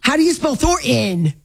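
exasperated, "Thornton" said as "Thor-in"; mock the missing t in "Thornton"; mimicked mispronunciation. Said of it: "I can't, I can't".

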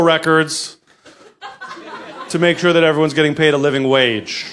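a brick in hand but asking politely; polite rioter. Retold or imitated. To a store owner, a polite rioter with a brick. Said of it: "go to a store and be like".

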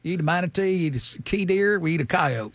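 put-on backwoods Tennessee twang; Tennessee accent. Speaking for the boys up in Tennessee, country accent. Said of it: "you can do that accent".

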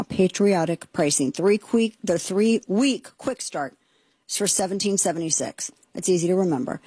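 measured sponsor read with slowed key phrases; host reading a sponsor ad to listeners, steady pitch; radio ad read. Acted.

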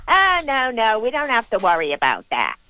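mocking retold brush-off; mock dismissive. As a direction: imitate someone breezily waving off a worry. Retells a man's breezy dismissal.

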